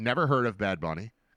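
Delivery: ordinary delivery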